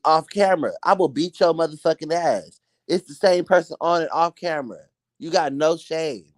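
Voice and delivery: high-pitched, exasperated rant; indignant scolding. Acted. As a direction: scold them in a sustained high voice. Mock scolding rant at someone.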